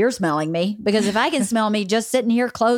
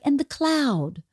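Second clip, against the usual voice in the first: dreamy Lamaze teacher. Retold or imitated. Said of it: "they're all like".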